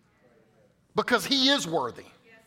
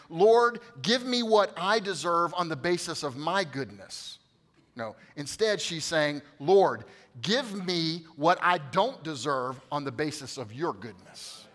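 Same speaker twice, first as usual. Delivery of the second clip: unhurried, slow, at normal volume; slow, even delivery; slower than usual. Shown as a demonstration. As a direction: lay each word down slowly and calmly. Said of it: "I'll say it again".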